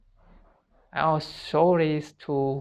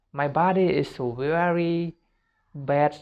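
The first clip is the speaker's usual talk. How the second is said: a slightly raised, lightly disapproving voice putting your own body down; negative self-talk; 2 semitones higher than usual. Shown as a demonstration. Coaching students, the wrong way to talk about your body, mildly disapproving. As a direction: say it as if you mean it, the wrong way. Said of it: "no, like this".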